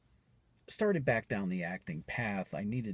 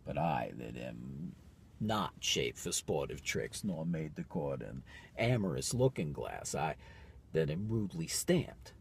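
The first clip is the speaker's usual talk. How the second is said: brooding soliloquy. Acted. Performs a Shakespeare soliloquy.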